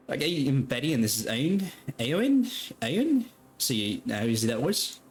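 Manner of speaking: lightly voiced woman, lifting the names; brisk saleswoman introducing. Seller introduces herself to the strangers, pointed saleswoman.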